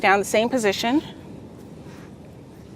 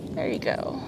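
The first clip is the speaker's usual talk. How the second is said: whispered encouragement; 11 semitones lower, 10 dB quieter than usual. Acted. Coaching in a hushed voice.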